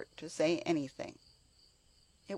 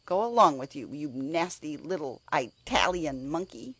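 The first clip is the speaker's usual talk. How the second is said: angry; 4 dB louder than usual. Acted. Martha drives away the boy.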